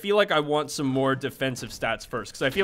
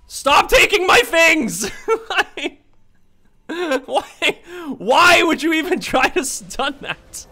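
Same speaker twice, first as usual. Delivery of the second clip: laughing mock outrage; 11 semitones higher, 6 dB louder, much slower than usual. Real, not acted.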